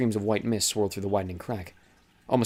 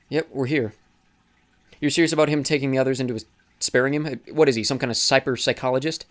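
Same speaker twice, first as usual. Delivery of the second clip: a lightly voiced young man, scoffing and a bit raised; Eris, mocking; 4 semitones higher, 4 dB louder than usual. Eris scoffing to Teresa about Thomas, lightly voiced sneer. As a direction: sneer at the idea, half amused.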